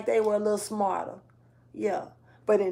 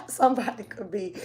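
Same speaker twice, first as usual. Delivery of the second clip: giggling through the words; words broken by laughter; laughing. Real, not acted. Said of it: "I'm sorry for laughing".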